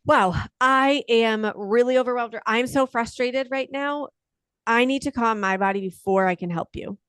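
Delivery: emphatic, mildly frustrated honesty; letting frustration show. Acted. Overwhelmed parent to arguing kids, honestly frustrated but controlled. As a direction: let the overwhelm into your tone. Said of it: "letting yourself have that tone".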